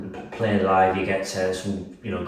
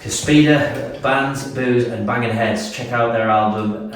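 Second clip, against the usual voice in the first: announcer read, a touch slower; radio voice; 4 dB louder, slower than usual. Pretend. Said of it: "Do the best radio voice".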